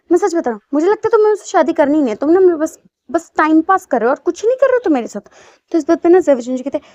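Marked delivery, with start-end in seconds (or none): 0.1-5.3 angry complaint. Acted. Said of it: "ऐसे कह के गुस्सा कर रहा था".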